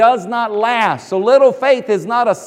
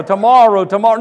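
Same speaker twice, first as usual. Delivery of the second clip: mocking procrastinator; 4 dB louder, faster than usual. Shown as a demonstration. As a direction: mimic someone putting it off. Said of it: "This isn't Scarlett O'Hara".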